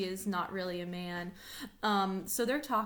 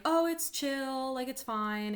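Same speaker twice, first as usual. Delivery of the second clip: breezy brush-off; 5 semitones higher, slower than usual. Retold or imitated. Olivia brushing off the rejection.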